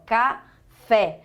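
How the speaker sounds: café with a wide-open, stressed final é; open stressed vowel. Shown as a demonstration. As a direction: break café into ca-FÉ, opening the last vowel. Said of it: "tem o som tônico e é aberto".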